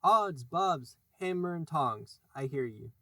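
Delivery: imitating Hook. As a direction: Peter aping the captain's bluster. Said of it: "answered in Hook's voice".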